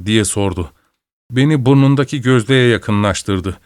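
ordinary delivery, nothing marked

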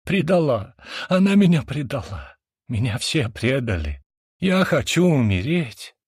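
crying out. A narrator's reading. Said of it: "заплакал".

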